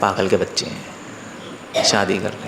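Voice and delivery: low grumble trailing into near-whisper; muttered aside. Acted. Guru privately scolding boys who marry, imitated muttered aside. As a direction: mutter it privately, slowing and dropping away. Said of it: "मैं कहा".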